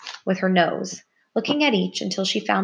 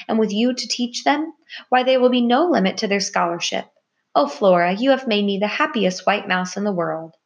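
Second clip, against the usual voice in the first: overjoyed; 3 semitones higher, 3 dB louder than usual. Acted. Buck overjoyed at baby news.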